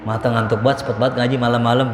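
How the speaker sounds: low, quick mock grumble; grumbling elder. Elder grumbling about late-night study, low and grudging. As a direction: play a sleepy elder complaining under their voice.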